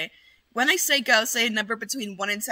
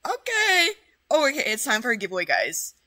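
laughing announcement; 4 dB louder than usual. Real, not acted.

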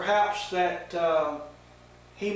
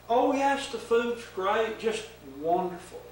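lightly voiced eager Eve; 4 semitones higher than usual. Eve answering the serpent, a touch higher and eager. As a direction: gush like an innocent happy Eve.

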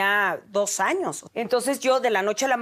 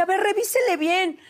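insistent demand; 8 semitones higher than usual. Retold or imitated. Demanding doctor recheck.

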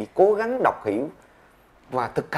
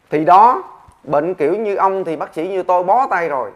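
doctor giving up; 4 semitones higher, 7 dB louder than usual. Acted. Doctor gives up on patient.

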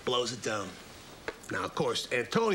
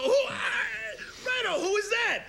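high pig voice. Acted. Pigs asking in awe.

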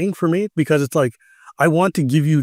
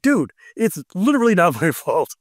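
higher, pleading exasperation; a much higher, fed-up plea of innocence; exasperated protest; 6 semitones higher than usual. Retold or imitated. To players yelling at him, a higher exasperated protest. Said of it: "it's like".

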